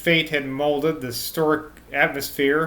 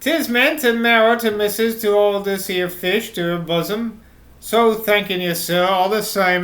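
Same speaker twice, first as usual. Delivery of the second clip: a hint of an old countryman's London accent, higher at the start; lightly voiced rustic London accent; 4 semitones higher than usual. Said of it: "reverting to his North London accent".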